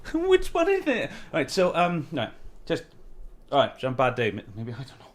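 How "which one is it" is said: high, loud exasperated question. Retold or imitated. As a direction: demand an answer, bewildered. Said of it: "So I'm like".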